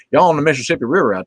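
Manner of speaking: put-on southern accent; casual mock southern accent. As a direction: slip into a light southern accent. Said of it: "I did the southern accent".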